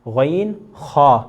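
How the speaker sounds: غین خا said very slowly and clearly; slow letter demo. Shown as a demonstration. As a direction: stretch out غین خا. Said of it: "جس طرح غین زبر غا". (غین خا بہت آہستہ)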